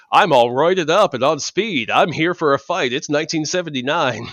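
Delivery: loud, pumped-up meathead voice; roided-up tough guy. Retold or imitated. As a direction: bark it like a juiced-up brawler. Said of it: "makes him look like".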